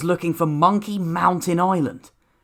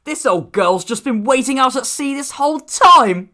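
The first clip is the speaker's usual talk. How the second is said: laughing; 7 semitones higher than usual. A narrator's reading. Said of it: "laughed Milton".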